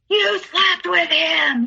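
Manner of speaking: high, slow, drawn-out shout; retold screamed accusation. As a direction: imitate a jealous man screaming. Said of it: "just screaming at me".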